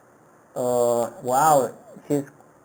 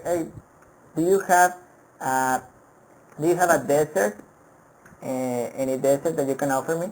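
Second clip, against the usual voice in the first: customer asking. Retold or imitated. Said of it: "you ask the waiter".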